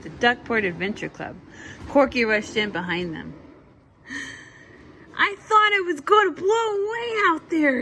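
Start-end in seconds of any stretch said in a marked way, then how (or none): 5.2-7.8 high loud worried duck voice; a frantic little duck bursting in from the wind; cried out. Acted. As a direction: blurt it as if blown in. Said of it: "he cried".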